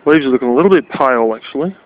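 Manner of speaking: talking around a lollipop; words slurred by a lollipop; lollipop in mouth. Real, not acted. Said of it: "I got a lollipop in my mouth".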